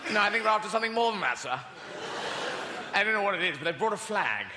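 mock urgent subordinate; hurried British lieutenant. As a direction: rush it out to the commanding officer. Acted Death Star officers.

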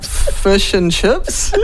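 mock Indian accent. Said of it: "And she's like".

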